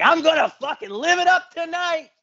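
high, mock party-girl squeal; drunk woman voice. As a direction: voice her up high like a tipsy woman letting loose. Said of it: "and she's like".

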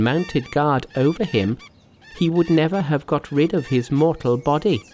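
high, earnest speechmaking voice; Monkey. A narrator's reading. Monkey counsels master on mutual debt, high earnest voice. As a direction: hold the pitch up through a measured address. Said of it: "said Monkey".

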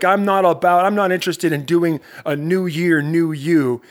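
mock the coach's dismissive push; imitating Tim Grover. Host imitating coach Tim Grover rejecting new year, new you. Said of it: "This is the way Tim Grover talks".

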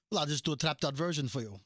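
terrible attempt at his accent; badly faked, mild accent imitation of a DJ. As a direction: quote him in a half-hearted accent. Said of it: "I'm doing a terrible accent".

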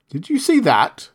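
high, loud triumphant spirit; a genie crowing over his magic; gloating genie. Acted. Djinn triumphant.

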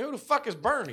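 high, baffled mock outrage; retelling his confused comeback to a stranger; incredulous retort. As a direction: toss it back like it's absurd. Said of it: "I'm like".

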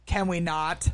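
understated mock-serious retort; deadpan imitation of someone not amused; imitated serious tone. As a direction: imitate her suddenly serious, unamused. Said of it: "in the most serious, uh, tone ever".

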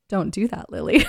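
imitated British telling-off; lightly mock a British listener; British accent. British listeners scold the host, imitated British accent. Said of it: "when I try to do an accent".

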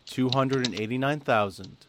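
measured, spaced-out results announcement; deliberately slow. Real, not acted. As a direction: read the figures out slowly, letting each land. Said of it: "I'm gonna say this really slowly".

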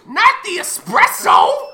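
high slow anguished cry; dramatic wail. Acted. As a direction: wail it like a tragedy. Repeating the outburst.

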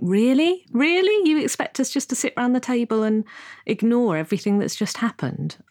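high-pitched, disbelieving "Really?", settling a little; incredulous. Retold or imitated. Daughter retelling her reaction to family avoiding it, incredulous. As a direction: throw it back in disbelief.

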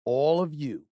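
upbeat sponsor read, punching key offers. Real, not acted. Host pitching a travel deal to listeners, ad read. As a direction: sell it like a radio host.

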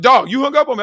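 high, protesting friend voice; indignant friend. Retold or imitated. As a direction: imitate an affronted friend. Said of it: "somebody be like".

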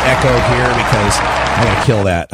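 echoey room sound. Real, not acted. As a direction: voice with heavy echo. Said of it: "my apologies for the echo here".

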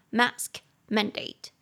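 mask mandate said very slowly and clearly; slow careful English. Shown as a demonstration. Teacher modelling a new phrase for learners, slowly. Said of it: "室内口罩禁令就是indoor".

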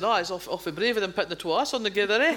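re-enacting chat in broad Fife dialect; thick Fife Scots banter. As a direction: lay on the braid Fife. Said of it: "talk to each other in good braid Fife".

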